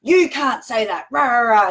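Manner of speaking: a lightly mocking indignant rant; mild mock outrage. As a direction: parody a self-righteous telling-off, half-hearted. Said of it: "get all indignant".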